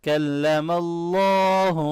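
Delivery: slow chant with a heavy اللَّهُ; heavy Allah. Shown as a demonstration. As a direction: make اللَّهُ thick and heavy. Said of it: "اللہ کے نام کو موٹا پڑھیں گے".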